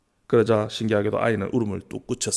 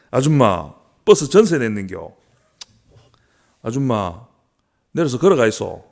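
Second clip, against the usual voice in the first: angry passengers; 3 dB louder than usual. Acted. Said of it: "화가 난 목소리가".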